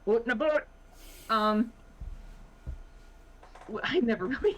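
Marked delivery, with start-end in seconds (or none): 0.1-0.6 put-on speels overdreven Canadees accent, "Oot and a boot" met ronde oe-klank; luid, hoger en spottend Canadees nagedaan; mock Canadian accent. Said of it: "I was expecting the aboot".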